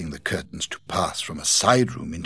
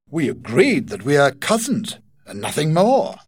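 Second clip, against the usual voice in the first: put-on higher and louder young woman, insisting; firm Rachel; 7 semitones higher, 6 dB louder than usual. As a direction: draw the line between cousins firmly. Rachel sets the limit.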